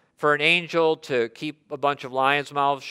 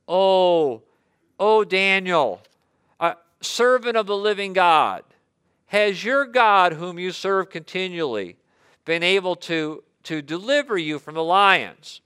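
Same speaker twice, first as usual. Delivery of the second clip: higher, anguished cry of a desperate king; 4 semitones higher than usual. Acted. King calls to Daniel in the den, anguished. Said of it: "Now there's a tone of anguish".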